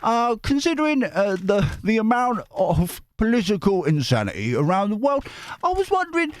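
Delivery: high, hammed-up Australian-Cockney accent; Dick Van Dyke Cockney. Reader voices a letter from Chris, hammed-up Cockney. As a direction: put on an embarrassingly bad musical-chimney-sweep Cockney. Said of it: "kind of Dick Van Dyke".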